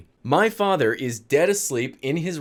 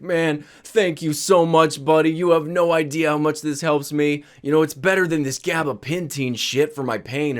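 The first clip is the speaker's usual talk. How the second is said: put-on grateful drunk dad; 2 semitones higher than usual. Drunk dad effusively thanking son.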